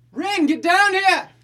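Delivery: very high, loud, drawn-out hollering yell. Calling a party member down the stairs in character: yelling in character. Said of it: "I'm gonna yell".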